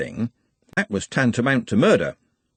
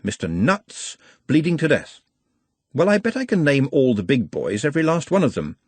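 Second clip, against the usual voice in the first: lightly voiced, higher, sarcastic police sergeant; dry sergeant; 4 semitones higher than usual. Tired sergeant questioning Trev, sarcastic. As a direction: interrogate with weary sarcasm.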